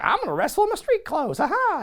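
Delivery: high, quick imitated crowing; mock gleeful boast. Lawler boasting he'll wrestle in street clothes, mock glee. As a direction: crow it with a hammed-up haha. Lawler eager in retold quote.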